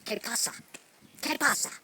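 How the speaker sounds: demonstrating a Mexican accent; short Mexican-accented demo phrase. Shown as a demonstration. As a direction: show off your Mexican accent, punchily. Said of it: "You wanna hear my Mexican accent?".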